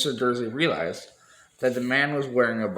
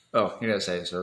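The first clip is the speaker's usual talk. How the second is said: plain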